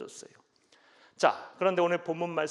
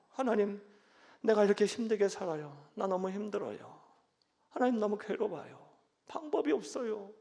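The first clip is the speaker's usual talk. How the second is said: pleading prayer; 3 dB quieter than usual. Shown as a demonstration. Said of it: "투정을 부리세요".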